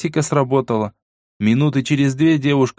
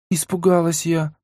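put-on higher girl's voice, sheepish and guilty; guilty mumble; 5 semitones higher than usual. A narrator's reading. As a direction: mumble it, ashamed. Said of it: "виноватым голосом пробормотала та". (виноватым голосом)

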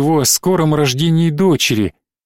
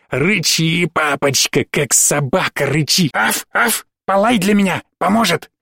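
taunting monster; 2 semitones higher than usual. Acted. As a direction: tease father cruelly like a spiteful little monster. Чудовище издевается над отцом. (одержимая девочка издевается над папой, насмешливо)

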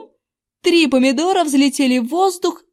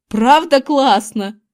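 louder, slow delighted exclamation; exclaiming; 2 semitones higher, 6 dB louder, slower than usual. A narrator's reading. Invisible boy delighted with his prank, exclaiming. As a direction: revel in the prank aloud. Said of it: "воскликнул Зак".

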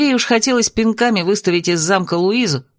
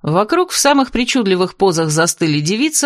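ordinary delivery, nothing marked

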